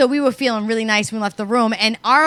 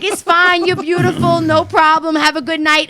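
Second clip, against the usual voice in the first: playful police; 4 semitones higher than usual. Retold or imitated. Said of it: "They were like".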